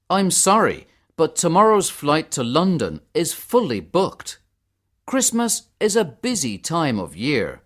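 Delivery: lightly voiced clerk breaking bad news; apologetic ticket clerk. Man at the ticket office to Harminder, apologetic.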